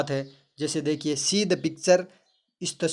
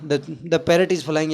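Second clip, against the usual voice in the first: very slow, louder, spelled-out reading; 5 dB louder, much slower than usual. Shown as a demonstration. Teacher checking the class can hear, slow and loud. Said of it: "अरे आवाज़ आ रही है ना".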